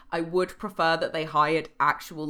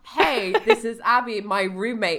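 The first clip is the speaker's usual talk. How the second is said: model introduction. Acted. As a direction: introduce her pointedly, slowly and clearly. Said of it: "How about".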